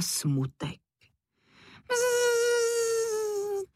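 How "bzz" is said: very high, buzzing insect voice; a high fly voice with a buzz. A narrator's reading. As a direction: buzz like a tiny sad fly. Smutek the fly speaks.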